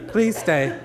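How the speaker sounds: laughing mock plea; begging through a chuckle; pleading with a laugh. Florist pleading with the flowers to stay, laughing. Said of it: "I thought".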